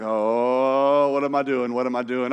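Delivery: long drawn-out low 'oh', then muttering worry; hammed-up dismay; mock dread. Voicing wide-eyed man in photo.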